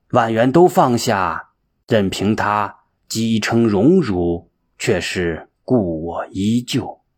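slow, measured poem reading; verse recitation. A narrator's reading. Narrator reciting a verse on carefree sleep, slow and measured.

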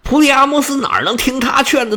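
ordinary delivery, nothing marked

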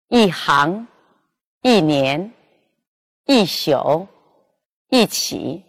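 一 said with a falling fourth tone before the non-falling syllable; sharp falling 一 in each word. Shown as a demonstration. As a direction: drop the pitch on 一, as in 一年. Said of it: "在非去声前变去声".

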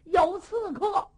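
high, slow cry of alarm; calling out alarm. Acted. Li Shimin shouting to the guards that there is an assassin. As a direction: raise the alarm across the palace. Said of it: "他就喊了一嗓子".

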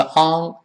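"on" closed with an "ng"; wrong nasal. Shown as a demonstration. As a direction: demonstrate the mistaken "ang" for "on". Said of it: "也不是on".

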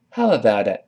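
"How about it" with a linked "a"; linked model. Shown as a demonstration. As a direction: run "about" into "a" smoothly. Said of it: "跟老师读一下". (连读示范)

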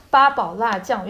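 八宝辣酱 said in Shanghai dialect sounds; Shanghainese pronunciation. Shown as a demonstration. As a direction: say 八宝辣酱 the Shanghainese way, not Mandarin. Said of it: "用上海话讲".

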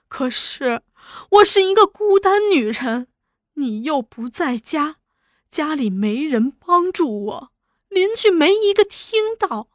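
a lightly voiced weeping plea, rising and sinking; tearful pleading. Wife tearfully pleading her story to Laoliu. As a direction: beg through mild tears. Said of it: "只哭叫".

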